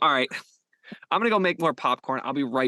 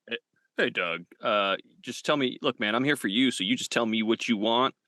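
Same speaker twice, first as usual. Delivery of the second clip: low reassuring voice; 6 semitones lower than usual. Acted. Smooth director reassuring actor.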